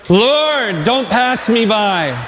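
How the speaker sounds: slow earnest plea. Shown as a demonstration. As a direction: lead the church in saying it slowly. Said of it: "Let's say that together".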